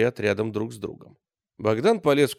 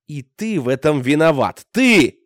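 furious accusation; 4 semitones higher, 10 dB louder than usual. A narrator's reading. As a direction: build to a loud high yell on Ты. Bogdan accusing in rage. (яростное обвинение с криком)

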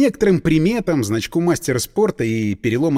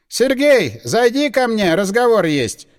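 raised voice through the wall; calling out; 5 semitones higher, 3 dB louder, slower than usual. A narrator's reading. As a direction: call to the next room. Lawyer calls through wall.

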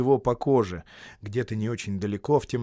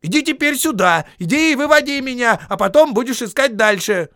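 higher, louder demanding call; insistent shout; 12 semitones higher, 10 dB louder than usual. Acted. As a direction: insist he keeps his word. Bilbo shouting demands at Gollum.

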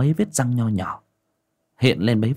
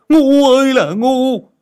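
even louder, higher, slow bellow; frustrated yell; 8 dB louder, slower than usual. Acted. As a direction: scream the insult again, slower.

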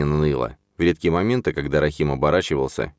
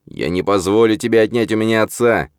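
through gritted teeth; 5 semitones higher, 3 dB louder than usual. A narrator's reading. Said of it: "процедил он сквозь зубы".

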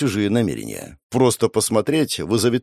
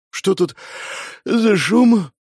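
put-on higher sleepy girl's voice; yawning Vika; 10 semitones higher, much slower than usual. Vika wakes and asks about the noise, higher sleepy voice. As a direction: ask while yawning. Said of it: "зевая, вышла Вика".

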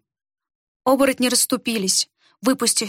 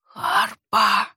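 breathed out. A narrator's reading. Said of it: "выдохнул не своим голосом".

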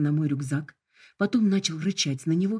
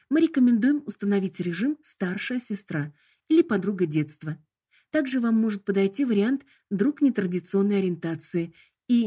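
sickly sweet voice; 3 semitones higher than usual. Acted. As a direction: sell the options with cloying charm. Hologram lists assistant modes.

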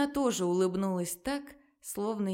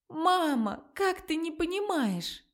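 angry crying; 7 semitones higher than usual. Acted. Daughter argues tearfully with mother.

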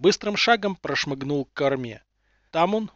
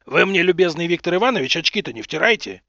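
flaring up; 4 dB louder than usual. Acted. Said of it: "мгновенно вскипел Руднев".

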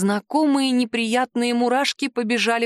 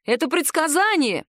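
sudden shout; 5 semitones higher than usual. Acted. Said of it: "вдруг крикнул Мартинель".

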